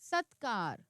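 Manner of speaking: सत्कार with the half त clearly closed; model word reading. Shown as a demonstration. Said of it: "इसमें भी आधा त है".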